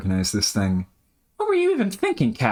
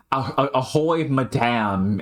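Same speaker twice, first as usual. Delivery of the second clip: halting attempt at an Aussie accent; put-on Australian, searching for the sound; 4 semitones higher, slower than usual. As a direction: stumble into a Strayan 'ahoy, madam'. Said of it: "in a fucking Strayan accent".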